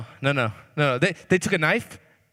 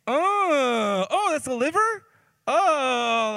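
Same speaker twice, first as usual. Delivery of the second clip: much higher, squeaky alarm; hammed-up disgusted discovery; mock horrified surprise; 7 semitones higher, much slower than usual. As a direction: recoil at finding liver. Discovering liver in his bowl.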